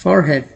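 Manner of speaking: forehead as "for-head", h sounded; spelling pronunciation. Shown as a demonstration. Teacher shows the word built from its spelling, literal pronunciation. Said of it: "ये बन गया आपका हेड".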